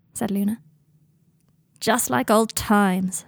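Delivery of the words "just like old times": slow, dry sarcasm; sarcastic. Acted. Dean scoffing at Luna, slow and sarcastic. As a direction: drag it out with bitter irony. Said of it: "said Dean sarcastically".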